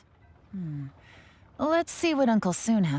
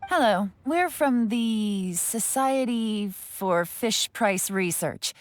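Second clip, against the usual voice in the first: fake official persona; 2 semitones higher, much slower than usual. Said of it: "She switched identity again!".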